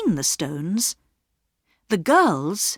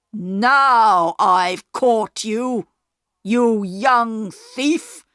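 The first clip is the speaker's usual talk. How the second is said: very slow, louder, triumphant shout; station master's shout; 4 semitones higher, 5 dB louder, much slower than usual. A narrator's reading. Station master catching Peter in the yard, shouting. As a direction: pounce on the thief. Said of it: "shouted the station master".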